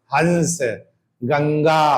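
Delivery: हंस and गंगा with a clear nasal hum; teacher repeats the nasal words; nasal sound demo. Shown as a demonstration. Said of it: "नाक से हवा निकल रही".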